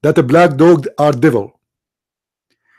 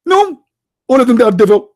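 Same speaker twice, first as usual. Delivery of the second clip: emphatic no; 7 semitones higher, 3 dB louder, faster than usual. Real, not acted. Rhetorical denial to audience.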